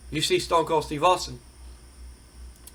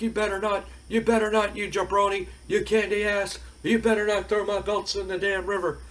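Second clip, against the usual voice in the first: mock furious Rock; 5 semitones higher than usual. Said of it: "And The Rock's mad".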